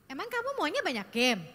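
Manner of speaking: sharp, doubting "Emang kamu maunya banyak game?"; challenging intonation. Shown as a demonstration. Parent questions a teen about games, challenging. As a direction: ask "banyak game" as an accusation. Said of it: "dengan intonasi seperti itu".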